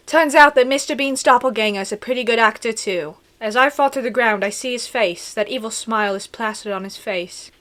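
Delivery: mock-British story narration; hammed-up British accent; put-on British accent. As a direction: read the twist in a put-on British voice. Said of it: "Let me do a really good British accent".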